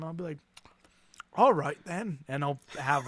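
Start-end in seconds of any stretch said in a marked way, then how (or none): 1.3-2.2 lightly voiced British grandpa agreeing; British old man. Grandpa accepting his grandkids' offer, lightly British old man. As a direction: give in like an elderly Brit. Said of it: "I'll revert back to my British".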